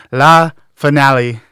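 slow mock French accent on La Finale. Host naming the last episode, in a mock French accent. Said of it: "Look at that French accent go".

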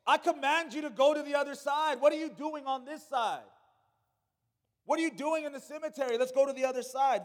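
lightly voiced Jesus urging the crowd on; voicing Jesus commanding. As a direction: call them across like Jesus. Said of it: "He's saying".

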